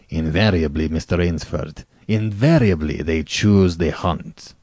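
smooth, sly General; suave General. Acted. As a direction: explain with veiled menace.

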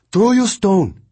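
high, loud barked order; commanding. A narrator's reading. Mongnan commanding the boy to throw the stone. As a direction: order him to strike now. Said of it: "she commanded".

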